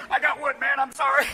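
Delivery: lightly voiced sheepish confession; apologetic luge rider. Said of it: "Poor guy gets to the end of the run going".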